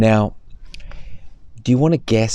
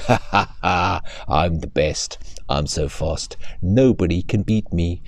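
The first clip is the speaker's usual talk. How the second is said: boastful cheetah. Acted. Cheetah boasting to himself, lightly voiced and smug. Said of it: "He was thinking".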